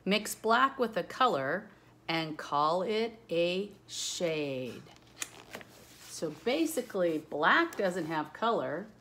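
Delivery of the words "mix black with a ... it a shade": a lightly sing-song picture-book reading; reading aloud rhyme. Acted. Teacher reading a color book to children, rhythmic lilt. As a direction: read the rhyme to the kids, gently lilting.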